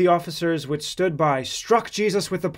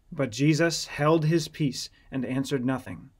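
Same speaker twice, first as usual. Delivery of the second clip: ordinary delivery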